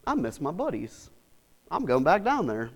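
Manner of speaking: lightly voiced Jesus missing his friends, soft; tender Jesus. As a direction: say it gently, fondly. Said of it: "He's like".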